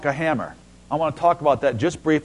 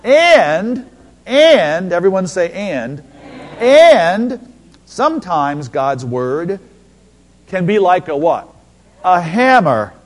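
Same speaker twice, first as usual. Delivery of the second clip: calling out; 3 semitones higher, 7 dB louder, slower than usual. Real, not acted. Preacher calls for congregation response.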